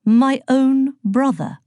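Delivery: slow, stunned disbelief; can't believe his own brother did it; incredulous. Acted. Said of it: "said Thanatos incredulously".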